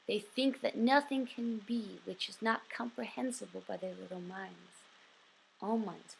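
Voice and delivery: deliberate storybook-style letter reading; measured, emphatic recital of a printed piece; reading aloud. Acted. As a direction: read the letter out clearly, leaning into each phrase opening. Reads famous letter and reply aloud.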